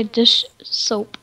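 "dish soap" as two careful, separated words; said separately. Shown as a demonstration. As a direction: pause between "dish" and "soap". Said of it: "like, really fast".

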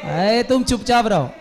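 hushing shout. Acted. Teacher acts hushing someone in story.

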